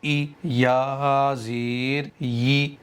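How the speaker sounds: slow, even recitation of each letter and vowel; measured letter-by-letter recital; slow spelling drill. Shown as a demonstration. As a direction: spell each syllable slowly, like teaching children to read.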